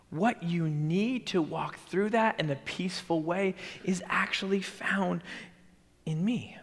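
whispered promise. Acted. Jesus promising his followers peace, whispered. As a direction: breathe it as a close secret. Whispered, then said aloud again.

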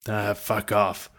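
slow, gruff brush-off; gruff old man. A narrator's reading. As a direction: drag it out like a grumpy old soldier. Gruff old man dismisses boy.

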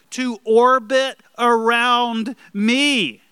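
mock-entitled voice that slows and swells at the end; self-centred demand. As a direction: lecture everyone as if you're the centre. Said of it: "they say things like this".

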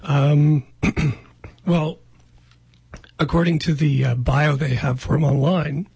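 rough, throaty voice; speaking through a throat tickle; frog in throat. Real, not acted. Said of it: "this frog in my throat".

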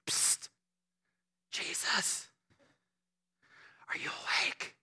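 hushed, tentative whisper to wake a sleeper; timid stage whisper. Acted. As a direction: whisper it as if nudging someone awake. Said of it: "they whispered to him".

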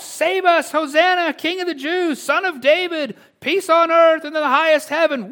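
high, loud jubilant proclamation; crowd crying out. Retold or imitated. Crowd on the road crying out praise to the king. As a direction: cry it out like a celebrating crowd. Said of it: "just praying out".

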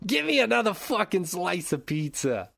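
high-pitched put-on pizza-joint accent; Vladimir Putin. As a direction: demand food in a hammed-up accent. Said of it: "That's Vladimir's real accent".

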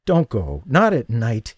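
pleading. Acted. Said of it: "he pleaded".

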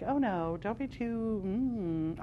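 gently imitating someone shushing her; hushed mock warning. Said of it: "we've been enculturated a lot to be really kind of like".

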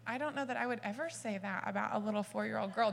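lightly voiced doubtful listener, quick and quiet; a hint of a prim skeptic, brushed off fast; skeptical audience. Speaker mimicking childless listeners who doubt her. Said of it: "They're all kind of like".

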